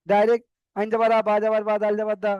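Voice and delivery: আইন জাবার আ run together fast, no breaks; rushed wrong way. Shown as a demonstration. Teacher showing students the wrong, hurried spelling. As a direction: rush through the spelling as a bad example. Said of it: "বানান করলে ভুল হতে পারে".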